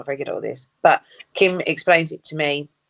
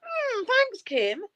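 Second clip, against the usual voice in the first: sarcastic thanks; much slower than usual. Retold or imitated. Mock thanks to Kim.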